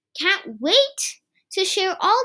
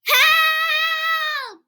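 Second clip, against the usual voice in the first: yelling; 11 semitones higher than usual. Acted. Kipper yelling in real fear of the monster. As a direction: scream out in fright. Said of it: "yelled Kipper".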